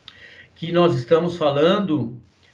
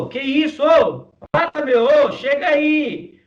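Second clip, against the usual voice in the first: much higher and louder, full and firm; high dense voice; 10 semitones higher, 3 dB louder than usual. Shown as a demonstration. Teacher shows a high voice in the dense register. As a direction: call out high with a full chest-like push. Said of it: "minha voz tá lá no agudo também, mas tá no denso".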